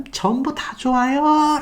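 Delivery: high, drawn-out soft yell; hushed mock shout, stretched out; mock crowd cheer. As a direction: imitate fans calling out, slowly and high. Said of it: "소리쳤습니다".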